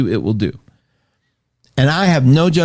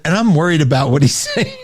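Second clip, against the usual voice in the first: laughing; 4 semitones higher, faster than usual. Pretend. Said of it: "then you should have said".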